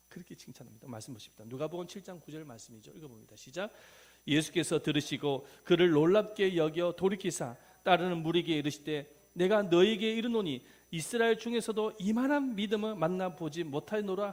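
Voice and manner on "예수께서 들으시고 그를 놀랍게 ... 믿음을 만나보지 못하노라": loud, measured recitation of a Bible verse; scripture reading aloud. Shown as a demonstration. Preacher leads congregation in Matthew verse, loud scripture recitation. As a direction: declaim the verse firmly.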